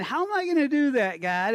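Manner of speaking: high, loud and fast, protesting in alarm; a frightened Moses begging God to send someone else; panicky Moses. Acted. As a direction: blurt it out like a man who is terrified of the job. Moses panics at God's call.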